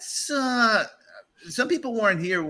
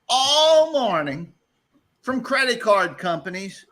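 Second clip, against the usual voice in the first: incredulous; 5 semitones higher, slower than usual. Acted. Mock outrage at credit card bill.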